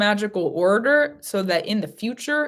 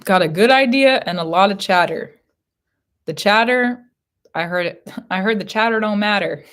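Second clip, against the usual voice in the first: loud proclaiming; 6 dB louder than usual. Acted. Repeating spirit's message loudly.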